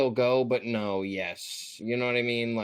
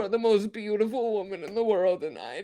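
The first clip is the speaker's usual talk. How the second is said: high, laughing adoration; gushing, laughing; 6 semitones higher than usual. Real, not acted. Praising Jillian as most beautiful, dissolving into high laughter. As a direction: gush until the laugh takes over.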